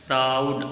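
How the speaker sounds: "प्राउड" with a long au glide; au sound. Shown as a demonstration. Teacher shows the shared sound, au stretched in "प्राउड". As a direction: draw out the au in "प्राउड". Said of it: "आउ का आ रहा है".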